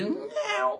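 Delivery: high meow; cat in the kennel meows. Retold or imitated. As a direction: meow like a kitten. Cat meowing.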